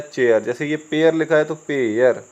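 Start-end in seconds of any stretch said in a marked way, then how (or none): 0.0-0.4 CHAIR as चेयर, chay-yer, pitched lower; correct pronunciation. Shown as a demonstration. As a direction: say चेयर with ay gliding into a final r. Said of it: "सही उच्चारण क्या है".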